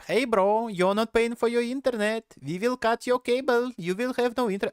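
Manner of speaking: put-on a light Asian accent on the ISP caller's voice. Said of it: "why I made it sound like Asian".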